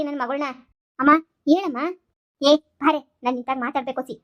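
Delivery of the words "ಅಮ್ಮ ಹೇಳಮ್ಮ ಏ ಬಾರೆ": loud, sharp call to come here. Acted. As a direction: call her over across the room. Calling across the house. (ಜೋರಾಗಿ ಕೂಗಿ ಕರೆಯುವುದು)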